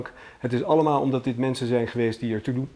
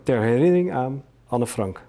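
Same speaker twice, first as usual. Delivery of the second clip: raised, projected auctioneer's reading; auction announcement; 4 semitones higher, 5 dB louder than usual. Acted. Auctioneer presenting the much-discussed poem to bidders, formal announcement. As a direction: announce it clearly to the room.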